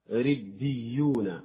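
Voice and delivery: ربيون بتشديد الباء والياء ببطء شديد; أبرز الشدتين; doubled letters. Shown as a demonstration. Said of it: "إذا جاورت الياء مشددا آخر". (تشديد واضح في ربيون)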